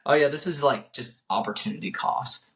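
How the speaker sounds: offhand, throwaway mock delivery; saying it to say it. Mimicking how a mentor would not explain it, saying it to say it. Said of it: "he's just saying it to say it".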